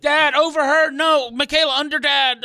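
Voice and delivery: retold yelling. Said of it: "This is straight out yelling and screaming".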